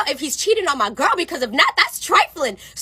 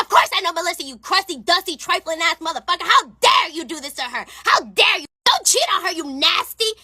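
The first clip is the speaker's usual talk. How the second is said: raised pitch, emphatic scolding; indignant telling-off; 5 semitones higher than usual. Retold or imitated. Server scolding friend's cheating boyfriend, indignant. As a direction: act out an outraged dressing-down.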